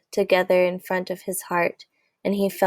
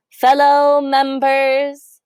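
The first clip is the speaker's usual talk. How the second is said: aghast; 5 semitones higher, 6 dB louder, much slower than usual. A narrator's reading.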